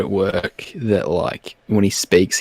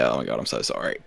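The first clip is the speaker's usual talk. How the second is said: hushed apology; 11 semitones lower, 9 dB quieter, faster than usual. Pretend. Imagined apology, lower softer.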